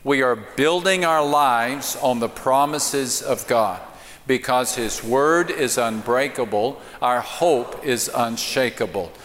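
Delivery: slow, emphatic congregational declaration; heartfelt declaration. Real, not acted. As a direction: recite it with conviction, leading the congregation. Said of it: "Let's say it like we mean it".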